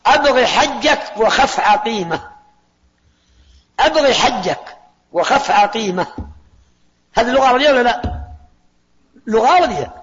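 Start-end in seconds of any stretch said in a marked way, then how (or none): 0.1-2.3 "أبغي حجك وخف عقيمة" recited slowly word by word; slow mnemonic recital. Shown as a demonstration. Teacher slowly reciting the mnemonic for the moon letters. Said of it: "اللي سأذكرها". 3.8-6.1 "أبغي حجك وخف عقيمة" recited slowly word by word; slow mnemonic recital. Shown as a demonstration. Teacher slowly reciting the mnemonic for the moon letters. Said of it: "اللي سأذكرها".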